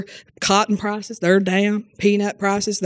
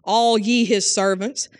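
solemn scripture reading; slower than usual. Acted.

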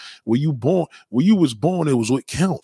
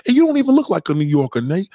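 excited teasing; 6 semitones higher, 4 dB louder than usual. Real, not acted. Teasing friend about his looks.

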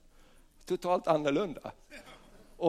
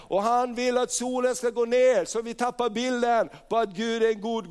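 raised, driving preacher's voice; fervent preaching; 4 semitones higher than usual. Acted. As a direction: preach it with mounting force. Preaches at full force. (eldig predikan)

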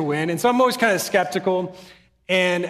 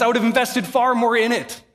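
"far" pushed higher and louder, impassioned; fervent preaching; 5 semitones higher, 3 dB louder than usual. Acted. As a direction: lift "invested far more" into a passionate cry. Preacher repeats quote with fervor.

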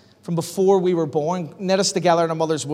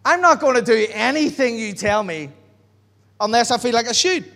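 arrogant past self. Retold or imitated. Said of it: "I was so arrogant when I got saved".

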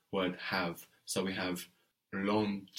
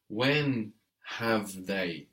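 slow word by word; much slower than usual. Shown as a demonstration. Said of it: "we'll want the inversion".

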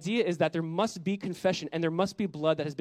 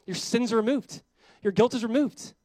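higher, ringing with rising ends; joyful declaration; 6 semitones higher, 4 dB louder than usual. Acted. Angel telling Isaiah he is forgiven, joyful. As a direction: announce it like good news.

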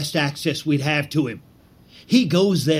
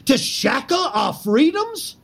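shouted rallying cry; 7 semitones higher than usual. Acted. Conspirator's rousing speech against Lincoln.

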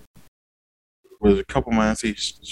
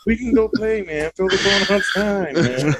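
high, stretched-out bored dog voice; lazy, disinterested dog; 7 semitones higher, slower than usual. Acted. Dog wanting to go play outside, lazy and disinterested. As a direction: plead lazily, as an Eeyore-like dog. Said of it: "a very lazy and disinterested voice".

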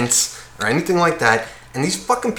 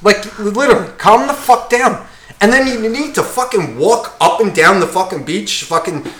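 exasperated, raised-pitch outburst; getting angry; 5 semitones higher, 3 dB louder than usual. Real, not acted. Telling the show-off to calm down, getting angry. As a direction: let the irritation boil over. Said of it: "I'm getting angry".

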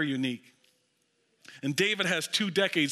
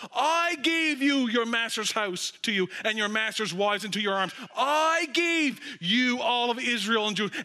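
God speaking; 6 semitones higher than usual. Acted. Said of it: "God saying, through Nathan".

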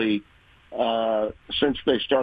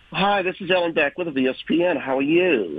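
put-on Long Island accent; 6 semitones higher than usual. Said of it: "she had a very thick Long Island accent".

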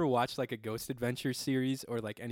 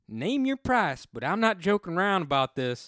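mock spooked reply; 4 semitones higher, 6 dB louder than usual. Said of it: "And I said".

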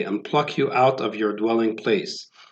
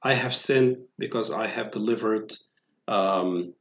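hushed remorse; 3 semitones lower, 8 dB quieter than usual. Acted. Judas regretting his betrayal.

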